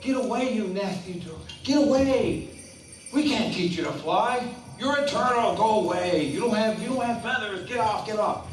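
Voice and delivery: high, loud angry shoo; shooing swans. Acted. Swans shooing the turtle away, high and loud. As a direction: drive the pest off. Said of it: "The swans are like".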